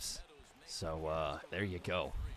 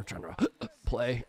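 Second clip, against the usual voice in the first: hiccupping; 5 semitones higher, 5 dB louder, slower than usual. Real, not acted. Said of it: "I'm getting the hiccups".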